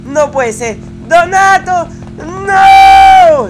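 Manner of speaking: real despairing scream; anguished shout. Real, not acted. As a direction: yell out in real dismay as he falls. Teammate gets killed.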